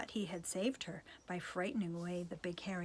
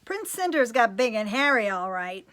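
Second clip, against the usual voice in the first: loud exclamation; 2 semitones higher, 11 dB louder than usual. Acted. Narrator exclaims at the big hairy prince, loudly. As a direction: shout it out at the sight.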